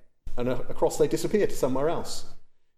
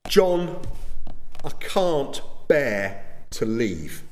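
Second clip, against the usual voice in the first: tearful plea; 3 semitones higher, much slower than usual. Retold or imitated. Wife begging her husband not to leave their church, a touch tearful and drawn out. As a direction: plead with him like a wife close to tears, lightly acted. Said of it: "Mary Fawcett cried".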